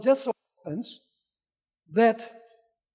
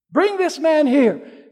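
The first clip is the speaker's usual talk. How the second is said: slow, louder and higher command; loud stern order; 5 semitones higher, 4 dB louder, slower than usual. Retold or imitated. Master to his servants, louder slow command. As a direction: Bring this man here, drawn out and thundering.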